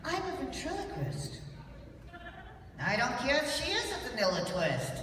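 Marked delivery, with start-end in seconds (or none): 2.8-4.9 put-on cheeky childlike puppet voice; bratty little lamb puppet; Lamb Chop puppet voice.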